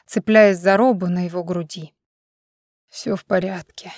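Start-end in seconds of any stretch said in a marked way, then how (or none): 2.9-3.9 soft, gentle reassuring voice; calm him down softly; quiet reassurance. A narrator's reading. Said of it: "тихо заверил он".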